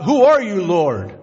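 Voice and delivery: crying out. Acted. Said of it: "And he cries out".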